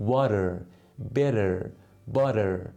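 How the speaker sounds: wader, bedder, budder in American style; flapped t demo. Shown as a demonstration. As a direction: say water, better, butter with a d sound.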